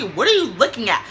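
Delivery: mock angry who-are-you-staring-at; retold angry challenge. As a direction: imitate a girl picking a fight. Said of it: "she hot".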